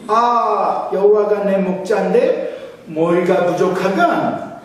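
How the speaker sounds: high, loud Pyongan dialect with teasing questions. Pretend. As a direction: rattle it off like a proud northern uncle. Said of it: "평안도 버전입니다". (높고 크게 과장한 평안도 사투리)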